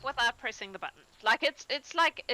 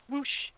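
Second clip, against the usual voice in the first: higher-pitched spoken whoosh; whoosh effect; 6 semitones higher than usual. Acted. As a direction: lightly voice a teleport sound. Game master voices teleport effect.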